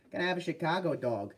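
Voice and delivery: put-on botched Chicago accent that comes out Boston; half-successful Chicago accent with Boston in it; Chicago accent turning Boston. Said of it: "that's Boston".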